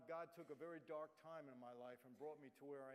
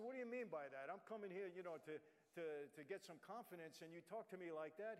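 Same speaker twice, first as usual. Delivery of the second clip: insulted. Retold or imitated. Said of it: "I got a little insulted".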